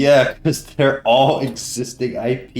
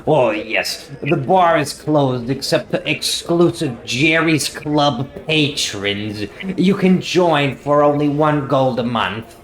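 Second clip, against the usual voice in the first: tavern owner pitching club membership, raised and loud; Jerry; 4 semitones higher, 5 dB louder than usual. Acted. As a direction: sell it like an eager host. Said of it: "I'm Jerry".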